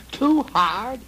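high, loud goblin voice; high goblin coaxing; goblin man. Acted. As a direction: squeak it out like an old goblin. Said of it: "said the old goblin man".

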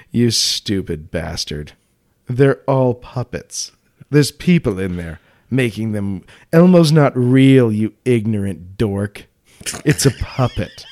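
slow, drawn-out smug put-down; mock smug. Smug adult debunking Sesame Street to a child, mock smug. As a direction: spell it out slowly, lightly smug. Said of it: "where you just smugly go".

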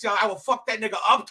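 tough street-slang delivery. Shown as a demonstration. Comic showing how he talks with friends, street slang. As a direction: talk it tough, street style. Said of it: "or on some ebonics".

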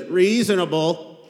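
slow, sarcastic "Reasonable"; dry mock "Reasonable". Shown as a demonstration. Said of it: "That's the voice in the original Greek".

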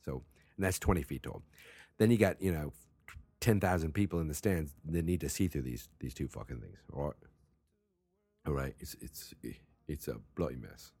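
shaky attempt at casual British; British accent. Shown as a demonstration. Host explains the cages to listeners, bad British accent. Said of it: "My British accent is not doing very good".

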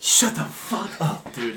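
whispered disbelief. Real, not acted. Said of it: "reacting to the story".

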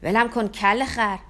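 slow, loud furious yell; a boy kicking free, yelling in rage. Acted. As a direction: shout him off with slow, heavy words. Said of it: "داد کشیدم".

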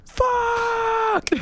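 sudden high yelled curse; screamed curse. Retold or imitated. Burned at work, yelling in pain. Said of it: "of course I scream".

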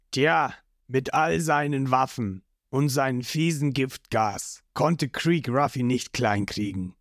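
a hint of a gruff old cook; lightly voiced old Jeff.

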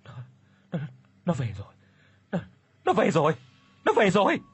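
terrified stammer rising to a high cry; trembling voice. A narrator's reading. Terrified daughter stares at the door, trembling then crying out. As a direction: panic building with each repeat. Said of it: "giọng run rẩy".

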